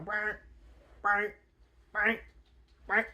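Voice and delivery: mock alarm buzz brr; alarm imitation. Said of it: "alarms going off, going".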